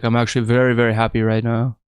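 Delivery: level, stone-faced imitation; deadpan. Stone-faced fighter insisting he is very happy, deadpan. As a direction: claim happiness with no feeling at all. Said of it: "he's just stone faced".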